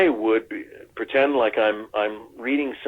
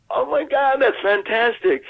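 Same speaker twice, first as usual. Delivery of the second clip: much higher, gushing mock delight; excited praise; 13 semitones higher than usual. Director gushing over the actor's idea, much higher. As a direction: gush over it like a thrilled director. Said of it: "And he goes".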